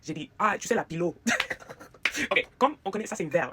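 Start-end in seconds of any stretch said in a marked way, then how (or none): 0.7-1.1 "pilot" as English "pillow" said the French way, pee-LO; improvised French "pilot", stressed on the last syllable; Frenchified English word. Retold or imitated. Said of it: "je connais pas un mot en français".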